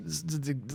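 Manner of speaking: soft buzzing z sounds; cicada buzz. Pretend. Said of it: "That was a really good cicada impression".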